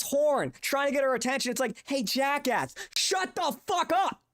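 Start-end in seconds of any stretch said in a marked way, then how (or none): 1.9-4.2 high, sharp telling-off shout; angry yell at driver. Retold or imitated. Yelling at a honking driver, angry shout. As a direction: snap at the honking guy to shut up.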